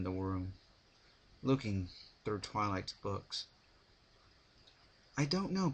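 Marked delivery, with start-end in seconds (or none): 5.2-5.7 gentle Twilight. A narrator's reading. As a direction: lift into Twilight's voice. Twilight answers Pinkie.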